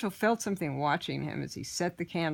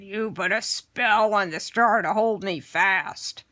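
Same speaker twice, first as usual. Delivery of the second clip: accusing goblin; 2 semitones higher, 5 dB louder than usual. Acted. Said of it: "the goblin shouted".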